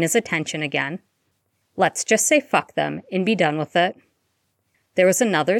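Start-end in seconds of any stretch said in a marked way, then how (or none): 1.8-4.0 calm. Acted. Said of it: "Remus said calmly".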